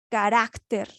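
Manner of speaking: Carácter with "rác" stressed; stress on middle syllable. Shown as a demonstration. Teacher showing the strongest syllable, stress on "rác" in Carácter. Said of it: "en la sílaba carac".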